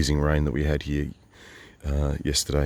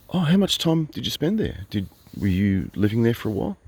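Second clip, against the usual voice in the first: mock innocent; 7 semitones higher than usual. Mock-innocent question to a critic.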